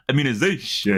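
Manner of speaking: mock count stressing Immunization; Transylvanian accent. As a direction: lightly imitate a vampire count. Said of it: "you say "zation" like you're a count".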